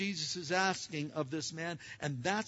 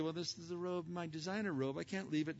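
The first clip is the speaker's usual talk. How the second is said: soft hypothetical whine; 8 dB quieter than usual. Pretend. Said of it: "He didn't say".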